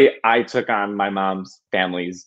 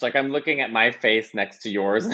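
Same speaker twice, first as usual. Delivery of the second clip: laughing; 3 semitones higher than usual. Real, not acted. Laughs comparing faces with host.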